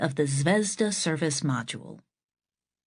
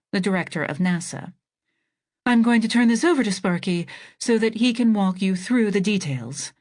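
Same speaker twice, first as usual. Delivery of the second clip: president voice. Acted. President voiced higher, louder.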